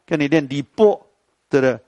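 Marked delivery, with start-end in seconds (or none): 0.5-1.0 李波 said with a short clipped final syllable; entering tone demo. Shown as a demonstration. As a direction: clip 李波 like an old entering tone. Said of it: "叫你不能念李白，跟你念李波". (入声读法)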